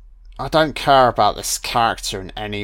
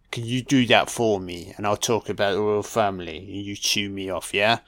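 put-on sleazy English accent, softer; mock English accent; 4 semitones lower, 5 dB quieter than usual. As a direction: murmur it in a smug English accent. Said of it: "My accent".

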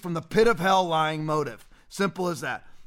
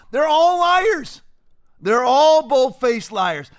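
slow, loud and much higher, spitting each word; angry shout; 4 semitones higher, 6 dB louder, much slower than usual. Real, not acted. Ranting against Doctor Jha, slow furious shout. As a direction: hammer it out like an accusation.

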